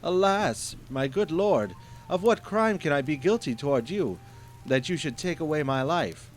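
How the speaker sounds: high, loud frightened pleading; trembling plea. Acted. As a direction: beg for your life in terror.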